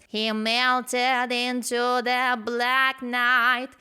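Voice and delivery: drawn-out, twangy imitation of the singer. Coach showing the singer's twang on the vowels, slow.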